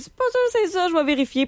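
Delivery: doute rejoué. Retold or imitated. Rejoue sa propre hésitation.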